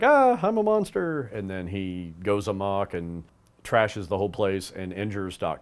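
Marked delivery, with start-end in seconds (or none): 0.0-1.3 high, loud horrified cry. Retold or imitated. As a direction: shriek it in horror at yourself. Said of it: "he wakes up and he's like".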